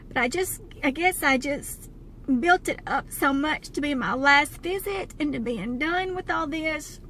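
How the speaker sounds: fighting not to cry; quiet, close to crying after her last doctor visit; holding back tears. Real, not acted. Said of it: "I'm trying not to cry".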